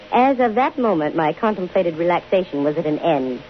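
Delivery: wry first-person detective narration; story narration. A narrator's reading. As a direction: tell it back to the audience, dry and easy.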